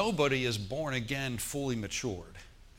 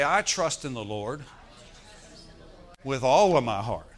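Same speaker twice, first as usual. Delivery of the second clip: emphatic declaration; 7 dB louder than usual. Shown as a demonstration.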